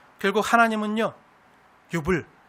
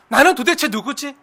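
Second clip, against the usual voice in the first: ordinary talk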